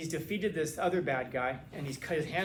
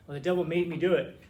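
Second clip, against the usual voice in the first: loud excuse; 7 dB louder than usual. Retold or imitated. Voicing a common excuse.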